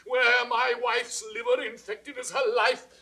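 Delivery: king's raging spite; bitter rage. Acted. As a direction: seethe with jealousy. King rants about wife's lover.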